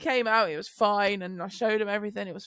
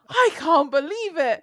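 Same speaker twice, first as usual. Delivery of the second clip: put-on child's disbelief; 4 semitones higher, 5 dB louder than usual. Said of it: "He's like".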